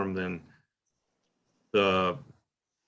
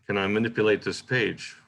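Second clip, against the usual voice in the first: quicker read with no question mark; swifter. Shown as a demonstration. Teacher showing students the line read without a question mark, swifter. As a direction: let it run on swiftly. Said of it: "It's swifter".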